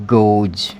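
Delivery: गोज ending in a voiced j. Shown as a demonstration. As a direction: close गोज on a buzzed "j", not s. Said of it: "इसका pronunciation क्या होगा?".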